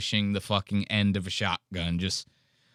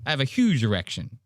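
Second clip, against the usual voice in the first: mock angry retort; 3 semitones higher than usual. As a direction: imitate an angry comeback, pitched up. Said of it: "And sits back down angrily. He goes".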